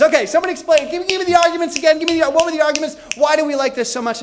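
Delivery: high, loud, hurried mock party chatter; clamouring party guest. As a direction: call out over a party for the arguments. Acting out guests at conversion parties.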